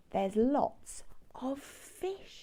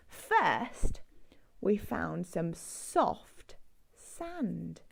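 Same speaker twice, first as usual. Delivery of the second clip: whisper; 5 semitones lower, slower than usual. Acted. Recapping the sand for children, whispered.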